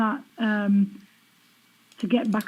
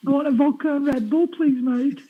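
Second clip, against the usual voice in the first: put-on Birmingham accent; 3 semitones higher than usual. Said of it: "not s-, such a big fan of the".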